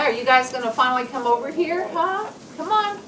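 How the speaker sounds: high, quick coaxing call; coaxing chickens. Real, not acted. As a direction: sweet-talk the hens over.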